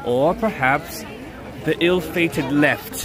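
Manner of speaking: slow, portentous guide offering the paths; dramatic quest guide. Acted. Streamer playing a mock quest guide to the friend, slow and grand. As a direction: lay out the roads like an RPG oracle. Dramatic choose-your-path bit.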